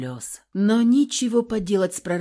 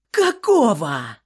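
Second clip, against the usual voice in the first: loud, slow furious outburst; exploding shout; 6 dB louder, slower than usual. A narrator's reading. Wife exploding at her cowering husband. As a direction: blow up on the single word. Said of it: "Взорвалась я, срываясь на крик".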